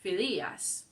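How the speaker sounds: Phidias mispronounced fi-DI-as; stress on middle syllable. Retold or imitated. Teacher admitting what she did call him, middle-syllable stress on Phidias. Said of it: "I did call him".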